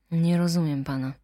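ordinary talk, nothing marked

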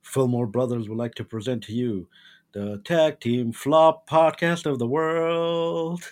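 grand circus announcer intro; ringmaster. Pretend.

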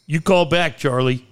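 gruff radio coach taking a call; mock angry radio host. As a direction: bark at the caller like a talk-show coach. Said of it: "waiting for Angry Coach".

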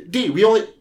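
high, hammed-up angry yelling; mock furious rant. Charlie berating Dee in a high mock rant.

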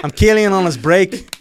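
loud, slow, high mock Birmingham; terrible Brummie. Shown as a demonstration. Clowning as one of the Blinders, slow Brummie accent. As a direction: stretch it out in bad Brummie. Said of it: "What's your Bromley like?".

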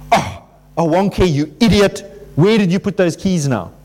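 mildly exasperated scolding of oneself; a light jab at yourself for losing keys; self-berating. Retold or imitated. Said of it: "it's like".

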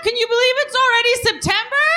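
high, timid, hesitant voice; a mime with no confidence; insecure mime. Pretend. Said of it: "an impression of a mime".

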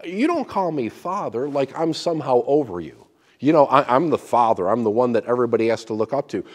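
loud, fast pompous boast; mock self-important. Preacher mocking a lofty spiritual father, pompous. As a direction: puff yourself up as the one to look up to.

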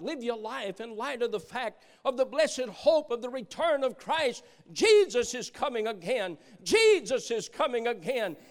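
worked-up preacher, voice lifted and punching the key words; loud, fervent proclamation; excited preaching. Real, not acted. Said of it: "Excuse me while I get excited".

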